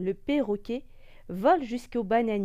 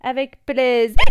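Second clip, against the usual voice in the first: monkey voice; 2 semitones higher, 10 dB louder than usual. Acted. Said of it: "répond le Ouistiti".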